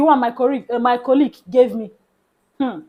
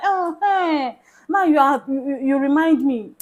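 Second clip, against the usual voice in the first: excited greeting; 4 semitones higher, 3 dB louder than usual. Retold or imitated. Stranger greets her excitedly.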